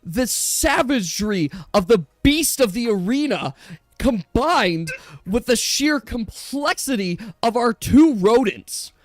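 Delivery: hyped arena commentator; arena announcer. Acted. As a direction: call the chaos like a ringside announcer.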